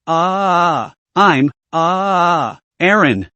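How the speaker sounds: slurred through a mouthful of snacks; mouth full. Acted. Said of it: "slurred with her mouth full of snacks".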